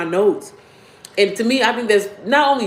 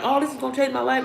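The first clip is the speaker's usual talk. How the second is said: mock excited; 5 semitones higher, 4 dB quieter than usual. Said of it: "be so excited about".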